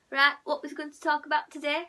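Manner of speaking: casual Yorkshire chat on a call; Yorkshire accent. Retold or imitated. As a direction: open the chat in broad Yorkshire. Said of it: "I love Yorkshire accent".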